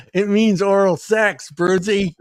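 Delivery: a hint of Becky, drawn out. Voicing Becky's reply.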